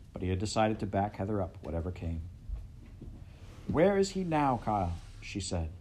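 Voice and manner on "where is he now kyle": high, strained, urgent question. Acted. Heather pressing Kyle, voice strained. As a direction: push through a tight throat. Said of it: "her voice strained".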